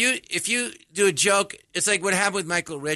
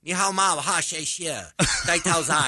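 lightly put-on Chinese sing-song; mock Chinese. Comic testing the host with supposed Chinese, mock Chinese accent. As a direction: toss out phrases in mock Mandarin. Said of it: "I'm speaking actual Chinese".

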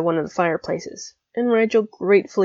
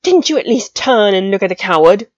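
indignant; 7 dB louder than usual. Acted. Draco outraged at attacker.

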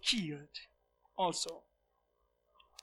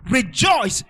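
a big exultant shout of the word; shouted rejoice; 3 semitones higher, 9 dB louder than usual. Acted. Preacher crying out to the congregation, full shout. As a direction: raise the roof with it.

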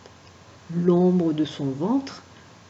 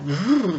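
shivering vrrr; 2 semitones higher than usual. Acted. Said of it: "frissonnait de peur".

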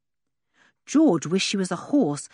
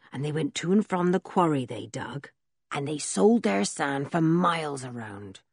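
put-on rough old blacksmith. Blacksmith Ben's voice.

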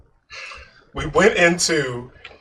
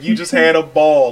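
normal talking voice

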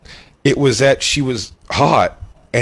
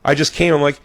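ordinary talk, nothing marked

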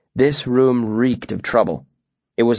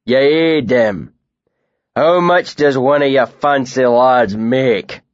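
1 mocking loud question; 2 semitones higher, 4 dB louder, slower than usual. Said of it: "loud enough for it to carry".

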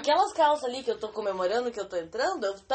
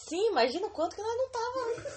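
laughing; 10 semitones higher than usual. Real, not acted. Laughing at their own weight.

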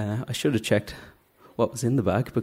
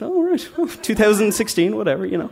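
laughing shrug; 8 semitones higher, 4 dB louder than usual. Retold or imitated. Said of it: "I said".

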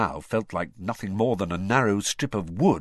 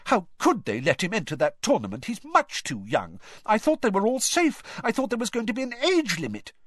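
much higher, fretting mum voice; anxious mother; 13 semitones higher than usual. Retold or imitated. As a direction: brother mimicking a worried mum. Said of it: "imitated his mother's anxious voice".

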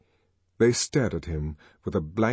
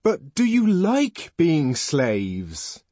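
impassioned, higher-pitched rebuke; ardent indignation; 5 semitones higher, much slower than usual. A narrator's reading. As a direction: challenge them, drawing the words out. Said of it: "bright with ardor and indignation".

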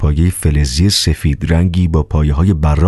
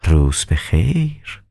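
calm doctor; 4 dB quieter, much slower than usual. Acted.

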